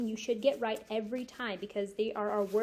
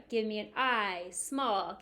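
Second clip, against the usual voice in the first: teacher call; slower than usual. Shown as a demonstration. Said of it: "I'm gonna say it, you repeat".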